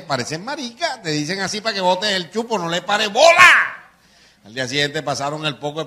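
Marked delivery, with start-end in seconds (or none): 0.0-3.5 high-pitched wife brushing it off; lightly voiced wife telling him to ignore it. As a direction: play the wife, higher, dismissive. Wife voiced consoling guard.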